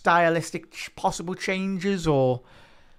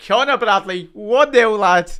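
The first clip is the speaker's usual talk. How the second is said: much higher and louder, yelling with joy; real jubilant goal yell; goal celebration shout; 9 semitones higher, 10 dB louder, much slower than usual. Real, not acted. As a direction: roar the goal out to chat.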